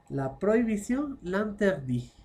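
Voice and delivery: l'interdit said "lanterdi", no final T; French word without its final T; silent final T. Shown as a demonstration. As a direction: drop the T at the end of l'interdit. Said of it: "Esa T no suena".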